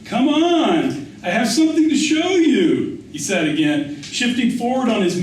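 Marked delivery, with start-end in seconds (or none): 0.0-3.0 put-on high, quick coaxing of a young tout; pushy street boy. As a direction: hurry him along, pitched well up. Boy repeats his urging.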